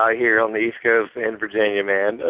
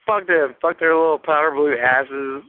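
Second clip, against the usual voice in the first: real giddy joy, slightly raised pitch; 4 semitones higher than usual. Real, not acted. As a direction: gush like a fan just after a big win. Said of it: "I'm so fucking giddy right now. I'm so happy".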